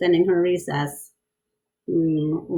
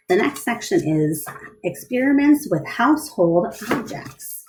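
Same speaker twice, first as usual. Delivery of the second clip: lively storybook read-aloud; bright picture-book reading; reading to children; 3 semitones higher, slower than usual. A narrator's reading. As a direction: read it to a class of kids.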